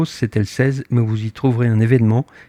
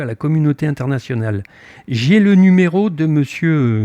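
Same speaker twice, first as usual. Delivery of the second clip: raised, higher, heated comeback to the officer; retold rage; 4 semitones higher than usual. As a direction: push back hard, a touch of fury. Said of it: "ma rage est au paroxysme". (colère rejouée, voix haute et montée)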